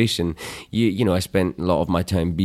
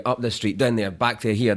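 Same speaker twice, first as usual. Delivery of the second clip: zigzaggy Cockney demo; light Cockney lilt; Cockney accent; 3 semitones higher than usual. Shown as a demonstration. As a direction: bounce it up and down like curvy London streets, Cockney. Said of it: "That's the Cockney accent. It's kind of zigzaggy".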